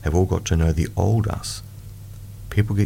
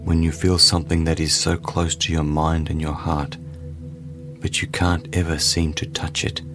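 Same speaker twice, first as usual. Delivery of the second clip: guided meditation; slower than usual. Acted. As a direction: ease the listener into calm.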